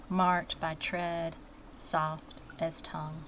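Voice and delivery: measured verse with deliberate pauses; poetry reading. Acted. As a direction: set each short phrase apart like a line of verse. Reads her own poem aloud.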